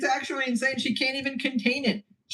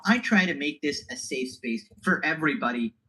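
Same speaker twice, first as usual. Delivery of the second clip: mocking streamer; 6 semitones lower than usual. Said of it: "she really goes".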